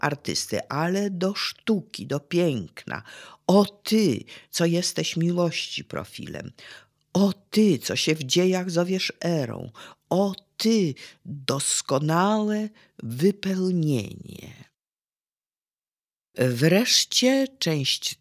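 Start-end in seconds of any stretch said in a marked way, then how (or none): 3.5-14.7 uroczyste, mocniejsze „O ty”; wznoś każde „O ty” jak wezwanie; deklamacja apostrofy. Acted. Recites apostrophes to art. (wykładowca recytuje apostrofę do piękna)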